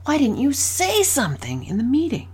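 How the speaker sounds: questioning lift on "say"; stress on SAY. Shown as a demonstration. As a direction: pitch up on "say" as if puzzled. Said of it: "six different ways I said the same question".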